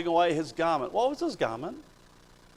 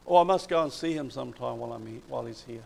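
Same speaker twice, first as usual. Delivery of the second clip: lazy casual aside; 4 semitones lower, faster than usual. Retold or imitated. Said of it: "he didn't say this".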